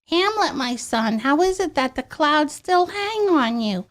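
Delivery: light ditzy Shakespeare recital. Pretend. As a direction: recite Hamlet like a bubbly ditz. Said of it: "that was my pop singer version".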